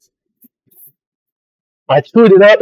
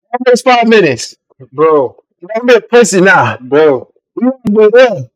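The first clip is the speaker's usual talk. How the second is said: tongue on fire, strained; pushing words past spicy burn; mouth burning from spicy food; 3 semitones higher than usual. Real, not acted. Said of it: "The tongue is on fire".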